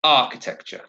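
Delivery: "Architecture" modelled with first-syllable stress; "Architecture" strong at the front, falling away. Shown as a demonstration. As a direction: lean on the start of "Architecture". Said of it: "stress is on the first syllable".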